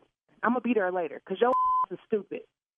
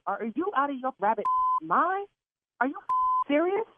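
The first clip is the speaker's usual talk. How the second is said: angry; 4 semitones higher than usual. Real, not acted. Caller furious at the caterer.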